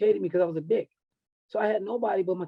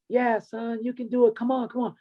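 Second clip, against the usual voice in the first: higher-pitched mom urging her son on; cheering mother; 6 semitones higher than usual. Retold or imitated. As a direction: imitate a mother's encouragement, pitched up. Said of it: "His mother was there".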